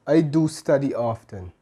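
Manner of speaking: "do" stressed, falling away after it. Shown as a demonstration. Teacher showing emphatic do to learners, stress on "do". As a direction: lean on "do" to insist it's true. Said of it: "Do is used for emphasis".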